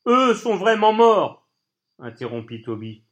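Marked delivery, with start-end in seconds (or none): 0.1-1.5 loud, high and slow, each word hammered; slow furious cry. Acted. Toby cutting off Colline about his dead parents: slow loud cry. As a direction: cut him off with a slow outraged cry.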